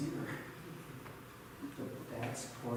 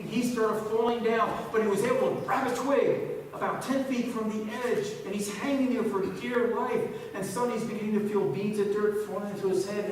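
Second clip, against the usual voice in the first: dramatic storytelling; 7 semitones higher, 7 dB louder than usual. Real, not acted. Tells cliffhanger story dramatically.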